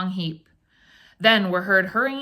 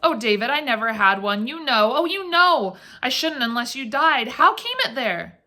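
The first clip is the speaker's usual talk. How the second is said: frightened; 4 semitones higher than usual. Acted. Frightened wife pleads.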